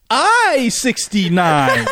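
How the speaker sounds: high, stretched-out mock announcement; playful joke shout-out. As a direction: proudly drag out the punchline. Joking answer to the bingo call.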